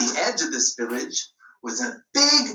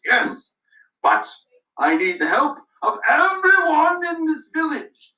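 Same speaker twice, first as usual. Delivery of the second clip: lightly voiced self-important constable; a hint of a puffed-up constable; pompous constable; 4 semitones higher than usual. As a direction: announce yourself like a proud village lawman. Voicing the constable.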